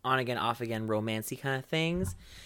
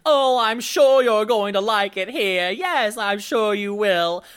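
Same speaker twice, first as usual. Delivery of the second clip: put-on squealing baby talk aunt; 6 semitones higher, 6 dB louder than usual. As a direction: coo like a creepy doting aunt. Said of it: "let me put my aunt voice back on".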